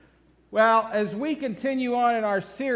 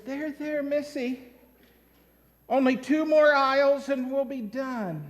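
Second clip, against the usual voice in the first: mother soothing; 4 semitones higher than usual. Retold or imitated. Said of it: "the mother says".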